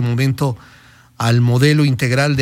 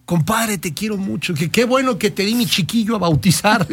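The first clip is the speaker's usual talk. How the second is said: toasting compadre; 4 semitones higher than usual. Retold or imitated. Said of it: "dos compadres estaban sentados ... se deseaban salud".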